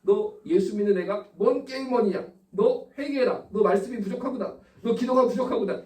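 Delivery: high-pitched mock parental rebuke; mock scolding father. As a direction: act out a preachy dad telling off a child. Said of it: "제가 뭐라고 그랬겠어요?". (아이를 꾸짖는 아빠 흉내)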